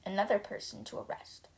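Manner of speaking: hushed, gloating guards; whispered gloat. Acted. Guards whispering smugly about another arrest. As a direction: whisper the sneer.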